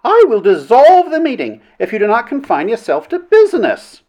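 high, forceful ultimatum; roared threat. A narrator's reading. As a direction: lay down the law from the chair. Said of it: "roared the princess".

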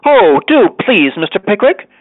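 high-pitched, eager pleading; crying ladies. A narrator's reading. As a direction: coax him in high, pleading tones. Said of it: "cried all the ladies".

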